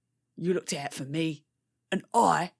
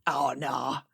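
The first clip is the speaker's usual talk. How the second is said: whispered aside; 3 semitones lower than usual. Acted. Confiding whisper to sisters.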